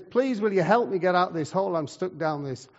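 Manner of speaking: shouting up, only lightly acted; mock shout for help. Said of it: "he shouts up to him".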